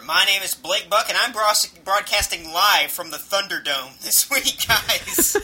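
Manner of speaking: thin, tinny voice over a bad mic; tin can phone. Real, not acted. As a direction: sounds like talking through a tin can. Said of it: "You sound like you're talking through a tin can".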